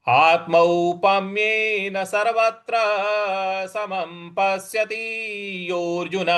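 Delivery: slow measured chant of the full verse; Sanskrit shloka recitation. Shown as a demonstration. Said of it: "इस प्रकार से इसको बोला जाएगा". (धीमा श्लोक पाठ)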